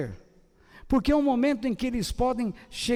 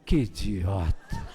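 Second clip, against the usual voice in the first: very low, slow dog voice; unimpressed dog; 12 semitones lower, slower than usual. Retold or imitated. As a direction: play a dog dryly judging its owner. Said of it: "O cachorro olha assim e fala assim". (voz grave de cachorro desdenhoso)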